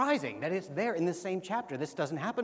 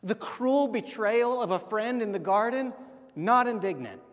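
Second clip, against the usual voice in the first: building emphasis; 5 semitones higher, 6 dB louder than usual. Real, not acted. Listing Christ's sufferings with rising force.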